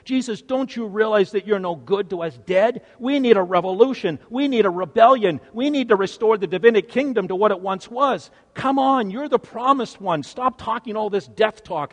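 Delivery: fired-up acted exhortation; impatient urging. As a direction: press him hard, building in urgency. Voicing Peter's impatient protest to Jesus.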